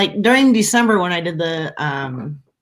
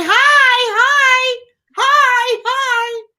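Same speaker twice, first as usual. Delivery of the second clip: eager barker greeting; 6 dB louder, much slower than usual. Retold or imitated. Greeting passersby while barking tickets.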